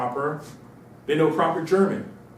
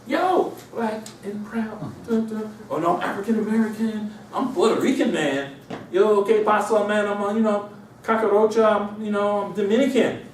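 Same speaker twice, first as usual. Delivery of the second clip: mock identity boasts; 8 semitones higher than usual. People insisting what they call themselves, high mocking impression. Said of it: "But people say".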